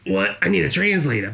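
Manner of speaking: high, baffled mother with a German lilt. Retold or imitated. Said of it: "she was like".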